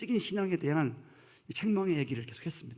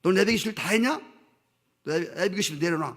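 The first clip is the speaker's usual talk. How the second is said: scolding Lord voice; 2 semitones higher, 4 dB louder than usual. Pretend. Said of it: "주님이 여러분에게".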